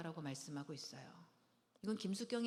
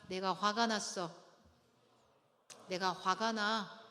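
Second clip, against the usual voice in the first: slow and steady, louder; telling a partner calmly, steady firm tone; calm, firm statement; 4 dB louder, slower than usual. Shown as a demonstration. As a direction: state your anger calmly and slowly. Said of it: "이 정도의 톤으로 말씀하시면 돼요".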